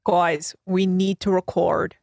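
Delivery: lightly voiced Mayor of Easttown Philly accent; a hint of a Delaware County drawl; Delco accent impression. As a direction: Kate Winslet's Easttown accent as a podcaster. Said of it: "my impression of Mayor of Easttown".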